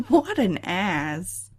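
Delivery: laughing through the words, very slow; amused laugh at a rude Sim. Real, not acted. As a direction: laugh out the insult. Laughing at game character.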